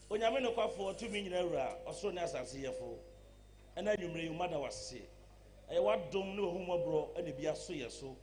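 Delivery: earnest spoken prayer to God; opening prayer for the concert. Real, not acted. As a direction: pray over the event, steady and earnest.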